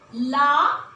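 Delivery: ला said clearly on its own; sounding out la. Shown as a demonstration. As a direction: sound out ला as a single syllable. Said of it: "ये है ला". (अक्षर ला अलग से बोलना)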